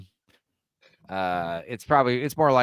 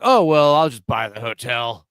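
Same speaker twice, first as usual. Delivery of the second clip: mock drunk Bruce Wayne; slower than usual. Friends riffing on Batman, a smug drunk Bruce Wayne boasting. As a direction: brag like a drunk billionaire. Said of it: "And he's like".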